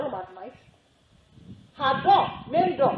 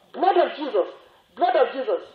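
retold shout; 3 semitones higher, 5 dB louder than usual. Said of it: "And she shouted the more".

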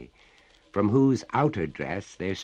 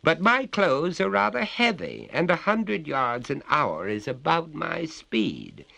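higher-pitched polite refusal; courteous; 8 semitones higher, 4 dB louder than usual. A narrator's reading. Master declines to hurry, courteous. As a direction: reason with her like an unhurried gentleman. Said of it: "returned the master courteously".

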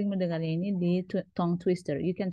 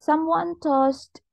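much higher, louder, slow "Someone tossed"; lively reading; 8 semitones higher, 4 dB louder, much slower than usual. Shown as a demonstration. Teacher reading the repetition example, lively. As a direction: read it out brightly to the class. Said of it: "Contoh di sini ada the sun".

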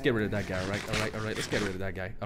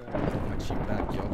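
sly whisper; 4 semitones lower, slower than usual. Shown as a demonstration. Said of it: "Check this out".

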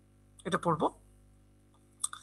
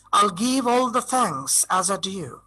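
slow, drawn-out verse reading; poem recitation; 3 semitones lower, much slower than usual. Shown as a demonstration. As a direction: recite the line slowly, word by word. Recites own poem line. (ধীর লয়ে কবিতা আবৃত্তি)

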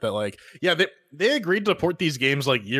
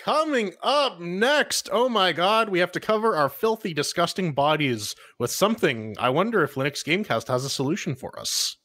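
segment announcer; 3 semitones higher than usual. Acted. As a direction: announce what's coming up with showy emphasis.

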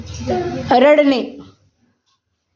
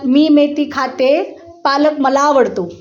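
slow model sentence; slower than usual. Shown as a demonstration. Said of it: "आता इकडे लक्ष द्या".

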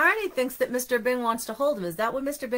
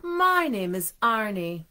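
sweet voice; 3 semitones lower than usual. Acted. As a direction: lay the sweetness on thick. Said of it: "said in his sweetest voice".

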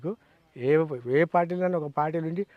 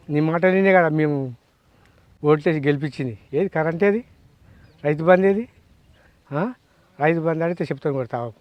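angry scolding; 6 dB louder than usual. Real, not acted. Angry farmer scolding a politician.

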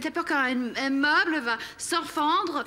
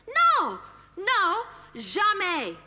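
angry shout; 3 semitones higher, much slower than usual. Acted. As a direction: shout the answer in his face. Wife answers her own question angrily.

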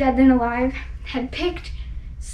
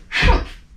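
a scornful unvoiced humph; sour humph; 5 dB louder than usual. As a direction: huff it out with contempt. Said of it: "'Twas a sour kangaroo".

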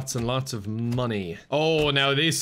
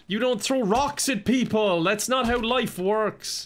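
mock scolding; 9 semitones higher, slower than usual. Scolding a rock-throwing enemy.

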